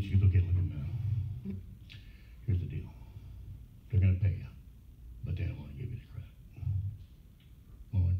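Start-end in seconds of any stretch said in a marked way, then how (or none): 0.3-6.3 retold agent. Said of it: "she's laughing again".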